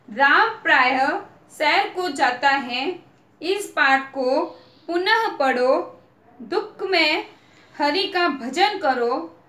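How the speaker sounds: slow, deliberate paragraph reading for the class; slow reading aloud. Shown as a demonstration. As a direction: read the sentences slowly so children can follow. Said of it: "इसको पढ़ के मैं बताऊंगी आपको". (बच्चों को धीरे-धीरे पढ़कर सुनाना)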